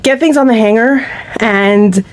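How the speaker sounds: slightly winded, short of breath. Real, not acted. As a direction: talk while catching your breath. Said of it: "I'm a little bit winded".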